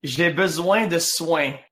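"J'ai besoin de soins" said slowly in French; French pronunciation demo. Shown as a demonstration. Teaching a friend the healing line, "J'ai besoin de soins" in slow French. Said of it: "can you teach me that, that sentence".

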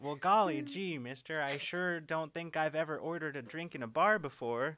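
put-on chirpy old-timey farm boy; wholesome 1950s kid. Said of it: "Who's that N P C?".

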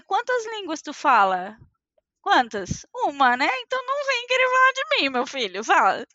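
retorting with mock indignation, a quick burst in the middle; sassy comeback. S1 retorting to people mocking her accent, sassy comeback. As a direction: put them in their place. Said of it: "eu falei".

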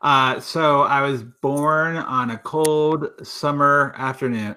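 mock storytelling. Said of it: "No, no, just kidding".

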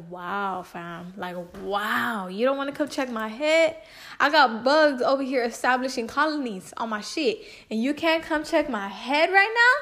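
mock outrage, rising to an incredulous question; retold livid rant. Daughter silently ranting at mom's refusal, livid. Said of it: "I was livid at my mom".

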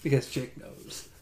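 breathy unvoiced whisper. Real, not acted. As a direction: breathe it out as an echo. Both say it together.

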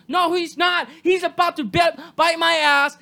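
snapping back at careless dog owners; shout. Real, not acted. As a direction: shout it down firmly. Shouted retort.

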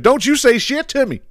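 high-pitched mock indignation; mimicked warning. Comedian retells a plane passenger confronting a woman, high mock warning. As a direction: imitate a fed-up passenger telling someone off. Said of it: "He's like".

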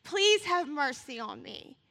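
pleading. Pretend. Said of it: "He was pleading with God".

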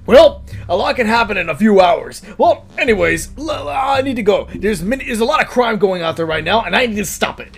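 lightly voiced superhero. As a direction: play a self-important hero, a little punched up. Acted superhero bragging, in a story.

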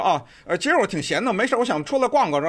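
foreigner answering in breezy Beijing Mandarin; 一口流利的北京话; fluent Beijing Mandarin. Retold or imitated. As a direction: toss it off like a local Beijinger. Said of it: "这么一个流利的中文啊".

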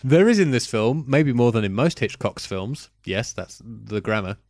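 reading a review in a put-on French accent. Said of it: "warm up the French accent again".

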